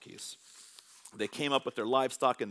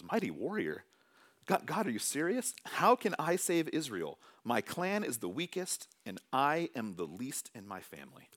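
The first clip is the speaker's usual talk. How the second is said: doubting, a touch of disbelief; incredulous question. Acted. Gideon to God, questioning in mild disbelief. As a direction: turn the title back, half disbelieving. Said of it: "He questions it".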